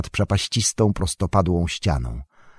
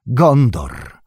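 raised, higher cry of a name; calling out; 4 semitones higher, 4 dB louder, much slower than usual. A narrator's reading. Aragorn hailing distant Gondor, calling out. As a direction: call "Gondor" out, higher and stronger. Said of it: "zawołał Aragorn".

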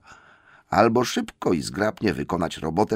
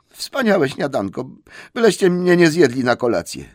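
a hint of a pleading hobbit; 5 semitones higher than usual. Bilbo pleads with trolls.

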